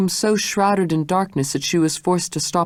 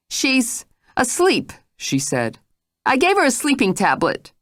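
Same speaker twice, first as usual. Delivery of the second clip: uneasy Jane; 9 semitones higher than usual. Acted. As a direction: falter while explaining.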